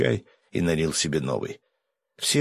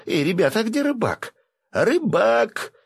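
высоко и громко звать; окликнуть гвардейцев, ища рыбака; громкий зов; 4 dB louder than usual. A narrator's reading. (громкий высокий зов)

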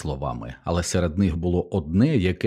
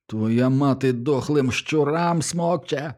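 higher, slow squealed retort; squealing insult; 7 semitones higher, slower than usual. A narrator's reading. Teddy squealing an insult at Milo. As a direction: shriek the insult back. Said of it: "завищав Тедді".

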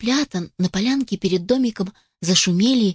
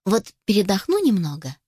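tender mother hen; 4 semitones lower than usual. Acted. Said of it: "ласково его погладила".

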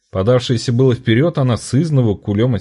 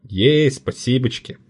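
pleased thanks; 4 semitones higher, slower than usual. A narrator's reading. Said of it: "расцвёл польщённый вниманием".

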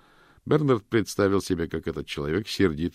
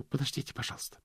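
a hushed, much softer plea; quick whisper; 9 semitones higher, 7 dB quieter, faster than usual. A narrator's reading. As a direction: whisper it into the phone. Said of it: "быстро прошептала в трубку".

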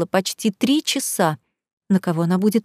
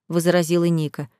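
plain reading voice

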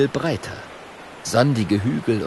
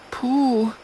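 relieved puff. Acted. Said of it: "flüstert Mathilda erleichtert".

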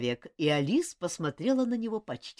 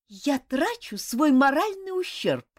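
slow, louder, word by word; clipped and firm; 10 semitones higher, 6 dB louder, slower than usual. A narrator's reading. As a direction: rap out each word firmly. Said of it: "отчеканила она".

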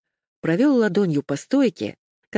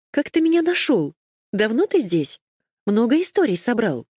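excited barrage of questions; 6 semitones higher than usual. Acted. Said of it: "осыпала мудреца вопросами".

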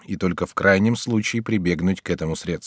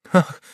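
anguished cry; 8 semitones higher than usual. A narrator's reading. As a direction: cry out in distress. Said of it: "вскричала Андреа". (горестный вскрик)

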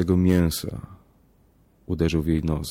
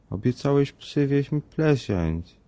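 put-on high, slow reproachful child voice; little girl scolding daddy, lisping; 8 semitones higher, slower than usual. A narrator's reading. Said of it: "stwierdziła z wyrzutem dziewczynka".

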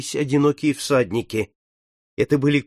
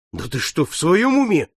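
indignant; 4 semitones higher than usual. Acted. Captain scolding his friend's dark talk, indignant. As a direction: rise up in disbelief at him. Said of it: "возмутился Сорвиголова".

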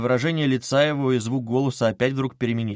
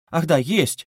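hurried; 6 semitones higher, 5 dB louder, slower than usual. A narrator's reading. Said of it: "заторопилась она вдруг".

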